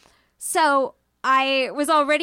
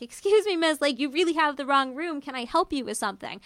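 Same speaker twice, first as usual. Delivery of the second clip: urgent, alarmed; 3 semitones higher than usual. Retold or imitated. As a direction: press the stranger more anxiously. Stranger keeps approaching, more urgent.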